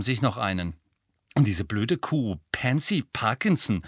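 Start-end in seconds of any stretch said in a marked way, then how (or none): 1.4-3.8 angry. Acted. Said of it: "sagte Hermine böse".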